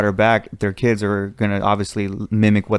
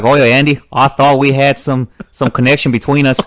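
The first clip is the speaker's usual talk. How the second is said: louder mock Australian accent; Aussie accent; 2 semitones higher, 5 dB louder than usual. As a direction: play an Aussie bloke confronting a mate. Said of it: "It's probably some Aussie right there".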